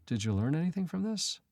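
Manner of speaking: retold gentle correction. Professor to the confessing student, gently correcting. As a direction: ask it tenderly, as in retelling a kind correction. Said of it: "tenderness and gentleness".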